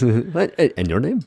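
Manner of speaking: high mock Italian voice; imitating a pushy Italian officer.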